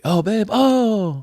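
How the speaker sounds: high, drawn-out husbandly cooing; feigned surprise. Acted. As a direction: act caught off guard by how she looks. Husband fakes surprise at wife leaving.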